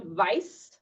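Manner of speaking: weiß with a v start and sharp s; German weiß. Shown as a demonstration. Teacher pointing out the ß in weiß. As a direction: say weiß as v-ice with a crisp s. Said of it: "the S sound".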